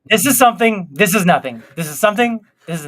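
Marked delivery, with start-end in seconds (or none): 0.1-0.9 emphatic bit. Shown as a demonstration. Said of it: "I'm doing those bits too". 0.9-1.6 lower bit. Shown as a demonstration. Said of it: "I'm doing those bits too".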